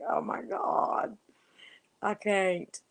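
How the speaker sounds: high whisper, slow; a slow, high, laughing whisper; whispered disbelief. Retold or imitated. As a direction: breathe it out as if you can't cope with how funny it is. Retelling her own reaction, laughing.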